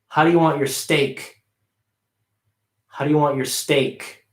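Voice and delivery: "steak" ends on a clear, full K; sentence-final K kept; full K ending. Shown as a demonstration. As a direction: finish "steak" with its K pronounced. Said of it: "the K stays, you pronounce it".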